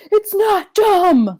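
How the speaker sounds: slow drawn-out high yell; Seth Rollins scream. Retold or imitated. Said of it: "Seth Rollins screaming".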